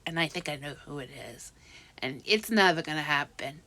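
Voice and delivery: fast, secretive whisper; hushed whisper, as if sharing a secret; whispered aside. Real, not acted. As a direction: let it slip out under your breath. Confiding a suspicion.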